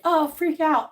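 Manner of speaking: hammed-up panic; mock freak-out. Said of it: "You're like".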